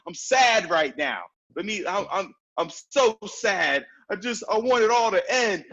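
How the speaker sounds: wallow in it, stretching the sad words; really sad. Shown as a demonstration. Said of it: "really be sad. Feel all of that".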